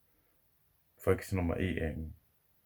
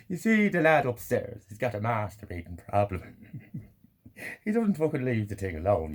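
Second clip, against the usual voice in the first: mock neighbour gossip; 4 semitones higher than usual.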